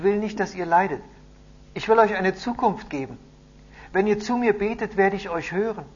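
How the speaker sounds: high, loud, declaiming; solemn proclamation. A narrator's reading. Messenger reads God's promise to the captives, loudly proclaiming. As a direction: proclaim holy words to a crowd.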